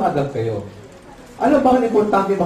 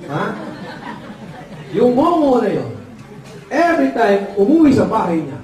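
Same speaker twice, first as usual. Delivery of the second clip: ordinary talk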